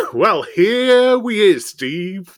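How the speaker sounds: high, loud, drawn-out attempt at Irish; attempted Irish accent. Shown as a demonstration. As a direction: have a hammed-up go at an Irish accent. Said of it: "That's Irish, isn't it".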